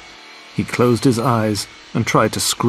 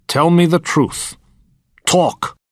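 demanding shout; 7 semitones higher, 4 dB louder, slower than usual. A narrator's reading. Villain demands answers from Bond.

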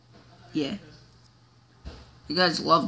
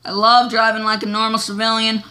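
louder boast; 3 semitones higher, 5 dB louder than usual. Pretend. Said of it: "crazy man".

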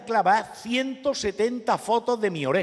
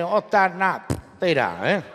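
clipped Murcian speech; 4 dB louder, slower than usual. Retold or imitated. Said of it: "hablar con un murciano va a ser que".

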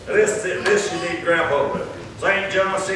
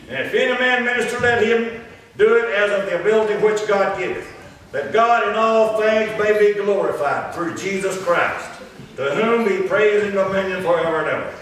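scripture read aloud. Real, not acted. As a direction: sustain each phrase as solemn Bible reading.

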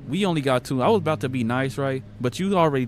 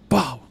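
mock gunshot; 3 semitones higher, 5 dB louder than usual. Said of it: "I just hear".

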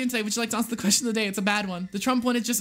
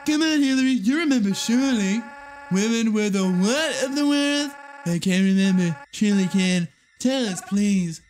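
louder, brash Trump impression; 3 dB louder than usual. Game Trump flattering Hillary, brash loud impression. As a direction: puff up like a boastful president. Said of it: "my Trump voice is too good".

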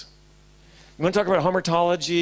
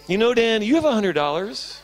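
nagging inner voice; 4 semitones higher than usual. Retold or imitated. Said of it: "continued to bark into my ear".

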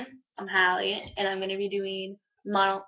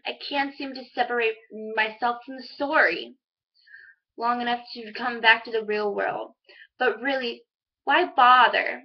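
lightly dramatized student monologue; monologue recital. Acted. Student performing a middle school monologue for viewers, lightly dramatized. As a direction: recite it as a teen's storytelling monologue.

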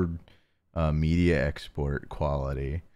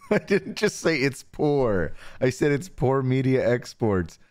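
laughing correction; 7 semitones higher than usual. Real, not acted.

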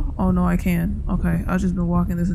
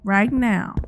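mock tough challenge; slower than usual. Challenging unseen presence slowly.

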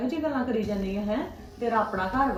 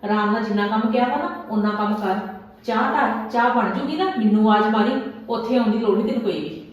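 loud, bossy orders; a mother-in-law ordering her daughter-in-law about, loudly stern; stern scolding; 4 dB louder than usual. Acted. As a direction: lay down the law to the new bride. Mother-in-law scolding new bride.

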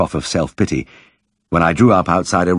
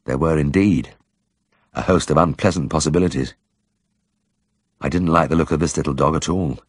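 ordinary delivery

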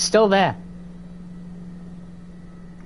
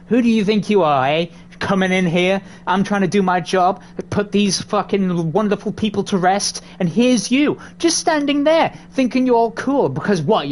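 angry ranting. Pretend. Yelling at ghost in game.

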